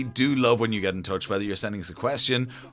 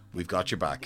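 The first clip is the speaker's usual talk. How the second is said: ordinary talk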